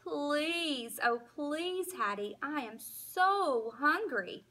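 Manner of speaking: whimpering plea. Acted. Hungry dog begging Hattie for supper, whimpering. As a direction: beg like a hungry puppy. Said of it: "I whimper and moan".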